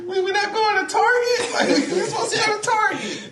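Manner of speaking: put-on very high, whiny child with laughter in it; mock crying boy. Boy expecting Target, not a fight, mock crying. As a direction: imitate a little boy's tearful protest. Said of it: "the little boy started crying".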